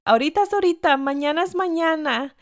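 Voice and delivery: put-on high, loud protest from a kid; imitated childhood pestering, pitched well up; insistent child retort. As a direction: argue back high and emphatic, like an impatient child. Child self arguing with dad.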